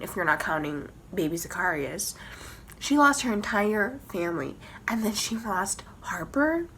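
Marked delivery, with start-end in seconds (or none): 2.8-6.7 hushed sorrowful whisper; grieving whisper. Real, not acted. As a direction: whisper as if heartbroken.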